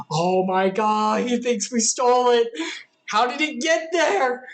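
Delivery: sudden fear they'll be called thieves; panicked brothers. Acted. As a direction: brothers caught off guard, voice jumping up in alarm. Brothers panic over found money.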